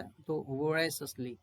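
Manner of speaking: voraciously drawn out slowly, vo-RAY-shus-lee; slow teaching pronunciation; slow demo. Shown as a demonstration. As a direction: stretch voraciously for the learners. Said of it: "देखिए, इसमें pronounce करेगी ये".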